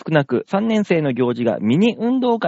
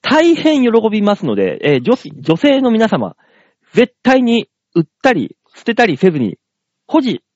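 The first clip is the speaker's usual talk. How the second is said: mock public announcement; 5 semitones higher, 4 dB louder than usual. Mock announcement to women listeners.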